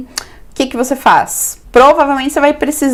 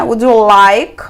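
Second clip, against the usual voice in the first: slow model phrase; slower than usual. Shown as a demonstration. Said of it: "Can I take a message".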